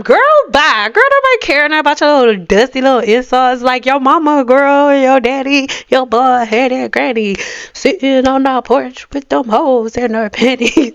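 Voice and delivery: roast them playfully; mock roast of haters; sassy roast.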